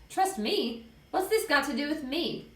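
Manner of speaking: put-on wronged kid's complaint; indignant protest. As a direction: push back at being blamed. Boy protests being blamed.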